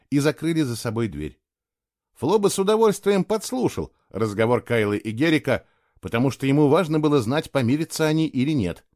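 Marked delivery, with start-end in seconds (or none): none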